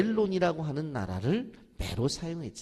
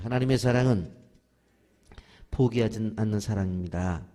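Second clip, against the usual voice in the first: louder call-and-response with 사랑은 punched; leading the repeat; 2 semitones lower, 5 dB louder than usual. Shown as a demonstration. Preacher leads the church in repeating, louder. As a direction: lead the church in saying it back, louder. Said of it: "따라서 하십시오".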